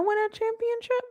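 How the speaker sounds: high laughing question. Real, not acted. Laughing at the Spurs wasting their chance. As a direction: ask it through a laugh.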